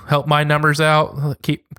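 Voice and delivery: normal talking voice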